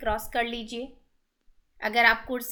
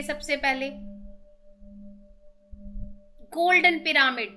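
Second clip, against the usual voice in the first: measured, ceremonial calling-in with pauses between names; steady devotional invocation, phrase by phrase; meditation invocation; 3 semitones higher than usual. Acted. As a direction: reverently invite each guru and deity in turn. Meditation invocation of pyramids, gurus, deities.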